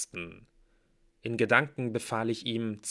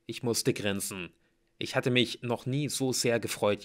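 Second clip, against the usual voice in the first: plain reading voice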